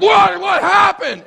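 very high startled yelp of words; shocked outcry. Acted. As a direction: cry out as if just punched. Punched, bleeding reader reacts in shock.

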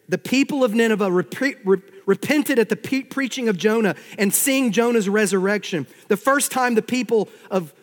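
energetic pulpit delivery; forceful preaching. Acted.

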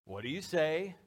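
lilting "what do you say?" lifting at the end; sing-song prompt. Acted. Parent prompting trick-or-treater, sing-song. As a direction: coax with a lift on "say". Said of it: "little sing-song almost".

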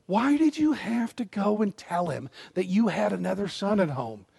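put-on whining old father; whiny voice. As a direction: complain like a self-pitying old man. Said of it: "in this whiny voice".

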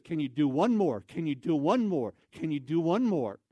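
pestering request with a soaring "one"; insistent plea. Retold or imitated. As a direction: lean hard on "one" each time. Voicing eager man's repeated plea.

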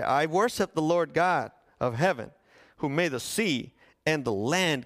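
Jonah suddenly bold, a touch of declaration; bold prophet. Retold or imitated. Preacher voicing Jonah boldly answering the sailors, lightly declaimed. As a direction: proclaim it like a newly bold prophet. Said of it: "Could you hear him?".

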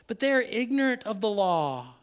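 usual speaking voice

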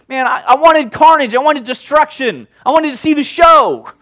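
high, loud whining complaint; hammed-up indignant Jonah. Jonah sulking that Nineveh repented, loud petulant protest.

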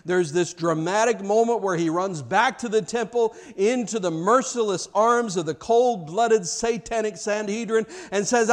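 ordinary talk

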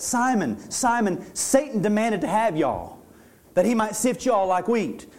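Southern folksy retelling with y'all; casual Southern preacher paraphrase. Shown as a demonstration. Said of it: "this is how we would say it".

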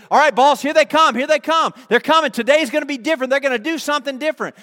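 high, loud, urgent report; excited lookout. Acted. Lookout tells the boss they are coming, excited alert. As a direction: sound the alert from the wall.

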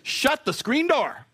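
high sassy drawn-out put-down; with attitude. Shown as a demonstration. Preacher shows the sassy way to shut down gossip, high and drawn-out. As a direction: give it full sassy attitude. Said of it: "the attitude one".

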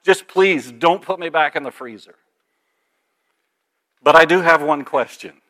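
a hint of a freezing parrot begging to get out; shivering frightened parrot. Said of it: "the parrot is shivering, freezing to death".

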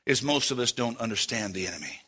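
soft, low and gentle; very loving. Real, not acted. Preacher gently correcting ladies and gentlemen, lovingly. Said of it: "I say this very lovingly".

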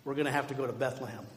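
low, soft, hesitant delivery; reluctant news-breaking. Acted. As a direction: break it to her quietly. Joseph reluctantly breaks news to Mary.

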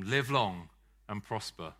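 slow, deliberate Vulcan greeting; Spock-like. Shown as a demonstration. Preacher showing the church a slow Spock-like greeting. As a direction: say it calmly and evenly like Spock. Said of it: "in your best, best sort of Spock-like way".

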